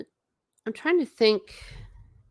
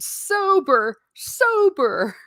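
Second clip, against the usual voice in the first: high-pitched, louder mock protest; retold indignant retort; 13 semitones higher, 5 dB louder, much slower than usual. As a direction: squeal it as a comic retort, well above your own voice. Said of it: "And then he said".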